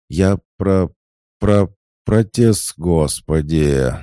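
loud, high stammering protest; flustered stammer. A narrator's reading. Lucy stammering her protest at Oksana. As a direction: trip over the words in panic. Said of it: "начнёт заикаться".

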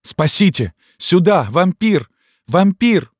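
high, loud, building screams; screaming for help. A narrator's reading. Girl screaming for help against the priest, loud. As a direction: scream for rescue with all her strength. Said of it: "она закричала".

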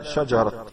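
"شجرة" ending in a sounded t, shajarat; stopped on open t. Shown as a demonstration. Teacher showing a pause on the Quran's spelling, "شجرة" ending in t. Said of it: "لو وقفت على".

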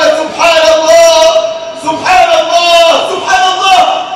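loud, slow, awed cry of wonder; awed exclamation. Acted. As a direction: cry it out in awe, drawn out. Preacher acts the Prophet's exclamation.

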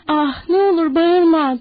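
terrified giant begging through tears; crying plea. Acted. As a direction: weep while begging her to hush. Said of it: "diye yalvardı".

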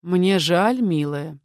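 a touch of gentle pity; guard captain comforts the weeping maid; sympathetic. Acted. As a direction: speak kindly to the frightened girl. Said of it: "с сочувствием произнёс Оли".

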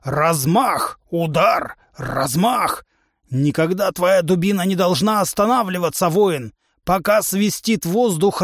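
a brash trainer lecturing his recruit; a touch of a boastful warrior coach; hint of a gruff trainer. Trainer humanoid voiced.

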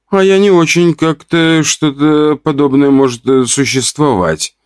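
put-on a curious young girl asking. Girl's question voiced.

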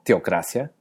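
TEOCRACIA as TIO-cracia, rising question; transformed diphthong. Shown as a demonstration. Teacher offers the third option, tiocracia with altered vowel. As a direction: turn the E of teocracia into I. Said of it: "transformando una de las dos vocales".

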